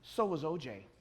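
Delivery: deadpan retold put-down, no push; dead serious. Interviewer answering the acquittal boast, dead serious. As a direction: deliver it straight, without any lift. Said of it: "with a dead serious look".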